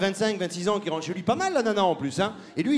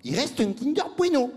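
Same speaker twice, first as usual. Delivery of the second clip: higher, hammed-up relieved line; mock relief; 6 semitones higher than usual. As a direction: fake ad relief for laughs. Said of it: "il fait". (soulagement surjoué, voix plus haute)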